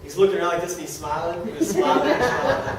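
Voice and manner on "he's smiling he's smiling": higher, laughing through tears; choked up. Real, not acted. Speaker to audience, choked up describing the CEO. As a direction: let it catch in the throat.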